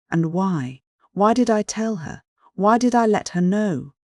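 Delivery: high, anguished self-reproach; despairing cry. A narrator's reading. Man regretting his confession to her, in despair. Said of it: "he cried a minute later in despair".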